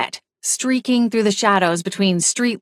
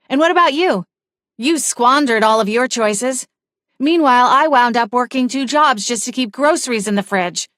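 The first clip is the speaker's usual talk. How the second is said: rising, accusing rant, pitch climbing higher; bitter accusation; 4 semitones higher than usual. Acted. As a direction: pour out years of grievances at him.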